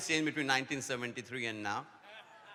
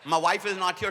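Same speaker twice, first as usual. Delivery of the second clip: loud laughing shout; 3 semitones higher, 5 dB louder than usual. Real, not acted. Calling out to crowd.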